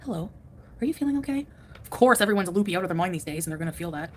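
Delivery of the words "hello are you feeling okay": guru voice. Retold or imitated. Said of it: "where he's like".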